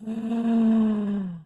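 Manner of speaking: long high-pitched fake whimper; drawn-out wordless whine, badly faked; mock crying whine. Reader mocking the girlfriend's fake cry, mock whine.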